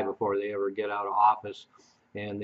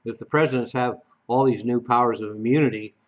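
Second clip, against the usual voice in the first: lightly mocking, louder on the opening words; mock media hysteria; 4 dB louder than usual. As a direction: parody the pundits' indignant question. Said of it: "the media went out there and said".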